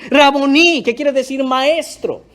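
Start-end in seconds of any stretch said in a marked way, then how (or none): 0.1-0.8 loud, raised cry, falling at the end; shout of recognition. Acted. María realises it is Jesús, shout of recognition. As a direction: exclaim it on recognising the teacher. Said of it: "Le grita también".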